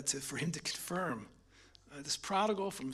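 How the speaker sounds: hushed, barely voiced; tearful whisper. Real, not acted. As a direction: push the words out through emotion. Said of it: "still overcome".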